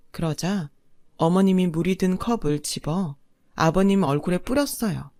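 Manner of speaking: ordinary delivery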